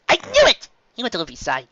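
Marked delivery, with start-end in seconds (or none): 0.1-0.7 much higher, squeaky small doctor; high little Chopper. Acted. Chopper answering Sanji about Luffy, high squeaky voice. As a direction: squeak it like a tiny reindeer.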